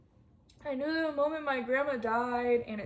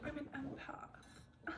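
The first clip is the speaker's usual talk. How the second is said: mocking empath; 3 semitones higher, 17 dB quieter, slower than usual. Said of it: "I'm not gonna sit here and be like".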